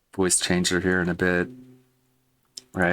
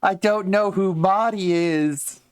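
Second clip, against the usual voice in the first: much higher goblin voice; 12 semitones higher, 3 dB louder than usual. Acted. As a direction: pitch way up like a cornered goblin. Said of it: "Just a mad, angry goblin".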